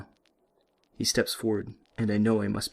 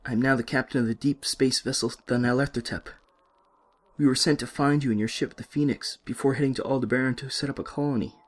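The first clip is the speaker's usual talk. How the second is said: louder and higher, forcing the point; urgent and raised insistence; insistent; 3 semitones higher, 3 dB louder than usual. Acted. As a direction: insist on the truth. Insisting on his identity.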